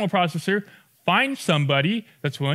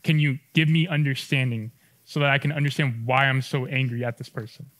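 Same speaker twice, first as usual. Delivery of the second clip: quiet sample prayer; 4 semitones lower than usual. Shown as a demonstration.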